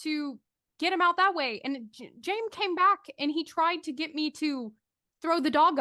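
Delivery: put-on girl explaining. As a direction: lay out the plan in a young girl's voice. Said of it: "She says".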